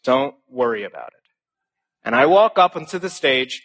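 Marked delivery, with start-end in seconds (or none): 0.0-1.3 soft, calm reassurance; reassuring. Retold or imitated. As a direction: settle them down gently. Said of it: "every time I say".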